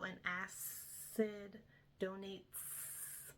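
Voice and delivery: hissing S in "acid", stretched; snake voice. Shown as a demonstration. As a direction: draw out the S sound in "acid" like a snake. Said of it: "for snake, we just really accentuated, like, that S sound".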